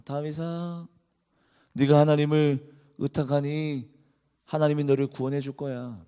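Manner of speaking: a quiet, understated sneer; mock David's faith lightly; sarcastic mocking. Mockers taunting David, mild sarcastic sneer. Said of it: "비꼬면서 이렇게 얘기합니다".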